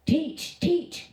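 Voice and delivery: a prisoner hailing his teacher, lightly bellowed; storyteller's restrained bellow. A narrator's reading. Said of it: "he bellows".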